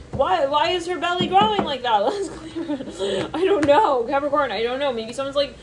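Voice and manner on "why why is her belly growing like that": higher, baffled question; mock bewilderment. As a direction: act baffled at the growing belly. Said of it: "it's like".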